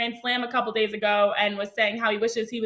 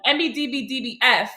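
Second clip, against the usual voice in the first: fast. Shown as a demonstration. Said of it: "I'm gonna try to say this as fast as I can".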